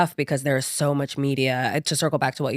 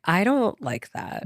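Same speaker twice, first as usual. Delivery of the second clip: slow, pointed, higher; outward firm refusal; 5 semitones higher, slower than usual. Retold or imitated. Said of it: "outwardly being like".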